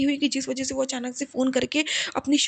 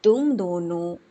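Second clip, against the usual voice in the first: a lightly lowered, calm guru voice giving a blessing; hint of a serene guru, lower and steady; guru's blessing; 5 semitones lower than usual. Guru blessing a devoted couple, lightly voiced and calm. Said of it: "गुरुजी ने कहा".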